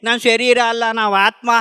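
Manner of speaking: lightly hammed-up sermon delivery; retold preachy speech, mildly put on; mock speechifying. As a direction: imitate yourself lecturing the grieving. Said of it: "ಭಾಷಣ ಬಿಗಿತಾ ಇದ್ದೆ".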